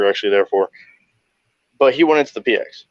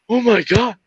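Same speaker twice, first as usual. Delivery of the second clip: very high, wailing mock meltdown; hammed-up high crying voice; mock breakdown. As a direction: imitate him falling apart in a high-pitched whine. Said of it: "started to break it down".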